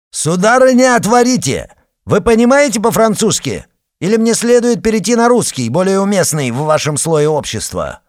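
Arkady shouting mockingly through the locked door; angry shouting. A narrator's reading. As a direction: bellow through the door with contempt.

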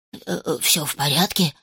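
low uneasy piglet voice; worried piglet. Acted. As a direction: ask nervously, low and hesitant. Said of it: "забеспокоился кабанчик".

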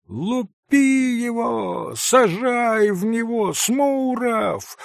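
lightly voiced boys yelling, high; a high boyish call to throw; boys shouting. A narrator's reading. Boys egging each other on, a mild high boyish yell. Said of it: "закричали все".

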